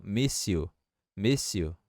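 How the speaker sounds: "miss you" joined as one word, "mis-siu"; blended "miss you", no gap; linked S. Shown as a demonstration. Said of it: "juntar esse S com you".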